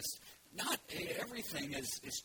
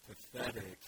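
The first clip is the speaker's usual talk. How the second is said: low, slow, mopey donkey voice; gloomy Eeyore; 5 semitones lower than usual. Acted. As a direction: sigh it out like a depressed donkey. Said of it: "I can't really do the Eeyore voice".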